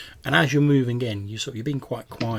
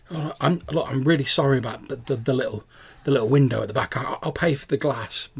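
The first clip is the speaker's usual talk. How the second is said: halting, sheepish apology; apologetic; 4 semitones higher, 4 dB louder than usual. Acted. Young intruder apologises for broken window, sheepish. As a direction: apologise with small stumbles. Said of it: "she sounds really apologetic".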